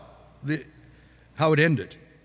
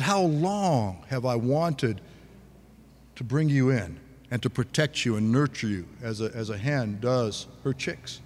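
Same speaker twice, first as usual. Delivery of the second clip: tearful lament; 3 semitones lower, slower than usual. Acted. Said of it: "He was weeping".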